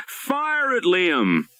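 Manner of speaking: a sharp high command; urgent shout. A narrator's reading. Darling shouting an order to Liam, urgent. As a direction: order him to fire, in alarm. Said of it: "Darling shouted".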